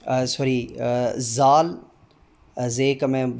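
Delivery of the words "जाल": each Urdu letter name sounded out slowly and distinctly. Shown as a demonstration. Teacher drilling the Urdu alphabet for demo candidates, slow and distinct. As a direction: recite the alphabet, one clear sound at a time. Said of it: "हर हरफ की आवाज़ अदा करते हुए".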